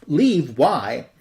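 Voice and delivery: mildly shocked, questioning; retold shocked upset. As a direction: ask it as if taken aback, lightly acted. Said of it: "he's shocked by this and, and mad and upset".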